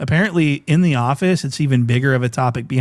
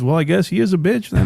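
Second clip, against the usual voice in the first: imitating the dad; 4 semitones higher, faster than usual. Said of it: "her dad says".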